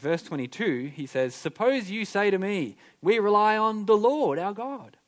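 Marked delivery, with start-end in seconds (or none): 1.3-4.8 loud, scornful, mocking, jeering tone. A speaker quoting verse 22 to listeners: imitating a mocking tone. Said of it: "Can you hear his mocking tone?".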